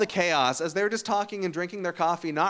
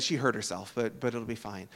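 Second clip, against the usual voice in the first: calm reassurance; 7 semitones lower, 9 dB quieter than usual. Retold or imitated. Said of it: "He said".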